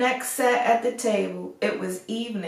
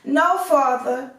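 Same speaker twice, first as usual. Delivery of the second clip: slow, firm and higher refusal; insisting; 5 semitones higher, 4 dB louder than usual. A narrator's reading. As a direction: stand your ground with father. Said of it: "insisted Beauty".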